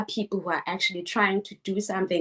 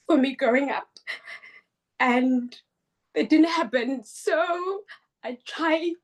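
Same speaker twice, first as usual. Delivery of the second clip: higher, choked-up voice pushing on; emotional; 5 semitones higher than usual. Real, not acted. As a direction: speak through lingering tears. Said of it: "I'm gonna get emotional".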